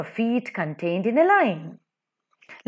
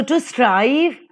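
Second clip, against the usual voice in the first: slow "to strive" with STRIVE stressed; light "to", long "strive"; iambic stress; 3 semitones higher than usual. Shown as a demonstration. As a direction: lean on "strive" in "to strive". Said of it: "unstressed and stressed".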